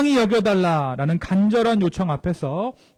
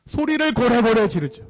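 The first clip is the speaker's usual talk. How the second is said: raised, higher voice imitating a marital fight; mild mock yell; 4 semitones higher, 4 dB louder than usual. Shown as a demonstration. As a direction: push it up as if starting to yell. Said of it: "부부싸움 할 때 어때요". (부부싸움 고함 살짝 흉내)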